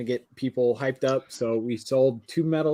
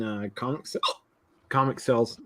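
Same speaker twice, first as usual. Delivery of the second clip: talking with hiccups; hiccuping between words; 2 semitones lower, 4 dB quieter, faster than usual. Real, not acted. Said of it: "I got the hiccups".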